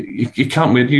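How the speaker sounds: ordinary talk, nothing marked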